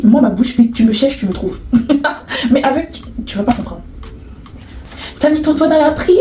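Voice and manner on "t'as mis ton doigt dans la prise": higher-pitched mimicked taunt, rising at the end; mocking teaser. Woman replaying the jibe about her afro, mock teasing. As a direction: tease in a lightly put-on high voice.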